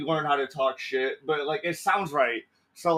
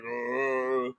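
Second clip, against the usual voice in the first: Eeyore groan; 5 semitones lower than usual. Acted. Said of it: "he's just like".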